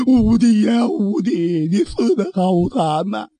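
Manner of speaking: wailing lament for a dead sworn brother; storyteller's mild acted weeping; crying out in grief. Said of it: "屋子里边立刻是哭成一片".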